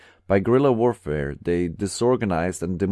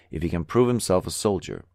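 usual speaking voice

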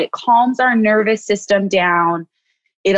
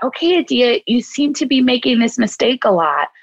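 gentle self-check; 3 semitones higher than usual. Shown as a demonstration. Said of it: "then I can look at".

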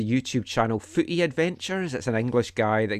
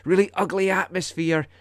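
imitating an English accent; 6 semitones higher than usual. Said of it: "'cause he's English".

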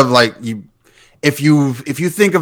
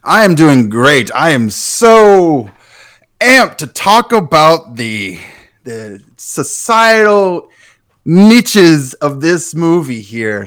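humble; much slower than usual. Pretend. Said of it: "he come on so humble".

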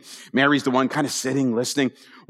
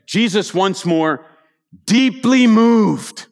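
deeply moved drawn out slow and louder; weighty reading; 3 semitones higher, 4 dB louder, much slower than usual. Shown as a demonstration. Preacher reading the verse to the congregation, slow and louder. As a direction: lean hard into deeply moved. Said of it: "reading the verse with weight".

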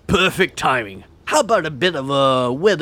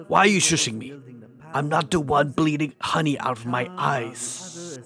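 softer, hushed commentator voice; hushed commentary; 2 semitones lower, 6 dB quieter than usual. Acted. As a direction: keep it down, you're being shushed. Commentator shushed during ceremony.

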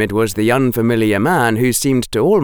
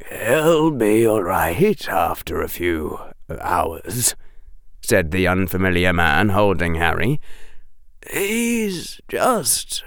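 slow, calm voice with the word "just" whispered; a lightly voiced kind rescuer soothing the boy; Lupin reassuring.

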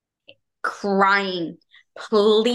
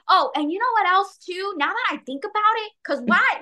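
mock rambling venting; 9 semitones higher than usual. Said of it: "it's like".

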